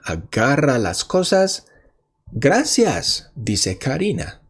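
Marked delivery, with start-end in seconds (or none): 2.3-3.3 Karina's thanks. Acted. Teacher voices Karina in story.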